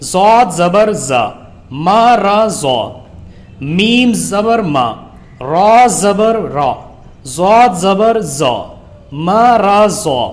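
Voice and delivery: slow, even spelling chant; teacher leading pupils through the lesson; slow Qaida recitation. Shown as a demonstration. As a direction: sound out each syllable, then join them. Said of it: "تو اس کو پڑھنے کا طریقہ رہے گا".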